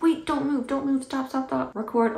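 high, loud, hurried parody of a panicked command; over-the-top urgent mock shout; mock frantic mom. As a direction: play the mom scrambling for the camera. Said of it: "It's like".

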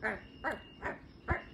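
short yappy barks; meerkat bark impression. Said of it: "do your best meerkat impression".

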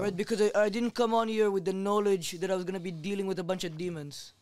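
talking in an English accent. Real, not acted. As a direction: keep the English accent steady. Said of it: "I don't like your fake accent".

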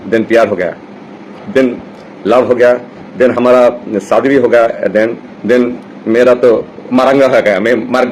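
slow, mock-dramatic Hindi film delivery; filmy Hindi line. Telling listeners his love story in mock Bollywood Hindi. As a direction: lay it on like a Bollywood hero, slowly. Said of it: "হিন্দিতে বললাম আর কি".

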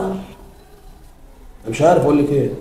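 soft, very slow, defeated; he gives up arguing with the mother, slow and soft; exasperated resignation. Acted. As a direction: let the words drain out in disbelief. Man gives up on her.

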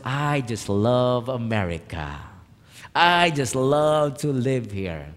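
slow, drawn-out admiration; contented sigh of a sentence, stretched out; savoring delight. Retold or imitated. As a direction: linger dreamily over the words as if taking in the view. Savoring his view, talking to himself.

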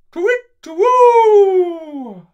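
high, loud, slow hooting owl call. Acted. Owl calling down from the sky, hooting. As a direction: hoot it out like a big owl. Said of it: "They looked up and saw the owl".

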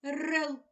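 single out Рел; stressed syllable alone. Shown as a demonstration. Teacher pointing out the stressed syllable. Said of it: "Наголошений другий склад".

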